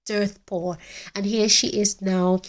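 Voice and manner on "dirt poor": quiet echo. Real, not acted. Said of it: "She grew up dirt poor".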